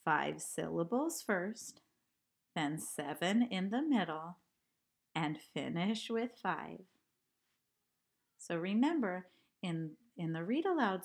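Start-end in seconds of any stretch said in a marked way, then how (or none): 0.0-6.8 recited haiku. Shown as a demonstration. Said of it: "So here's my haiku".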